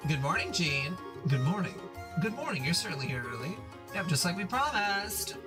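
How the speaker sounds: put-on bubbly Valley Girl accent. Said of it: "Valley Girl accent".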